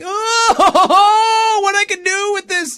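high, excited, laughing; high excited quote. Retold or imitated. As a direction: squeal it with glee. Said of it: "there have been times where I'm like".

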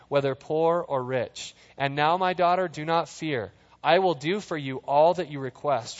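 measured, even Bible reading; calm scripture read. Acted. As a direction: read the passage steadily to the congregation. Reads scripture aloud.

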